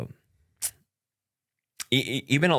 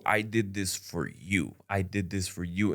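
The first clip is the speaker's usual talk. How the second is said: slow, softer, pointed accusing repeat; mock guilt trip; 5 dB quieter, slower than usual. Imitating ex blaming him for her choice, slow reproach. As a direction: lay the guilt on slowly.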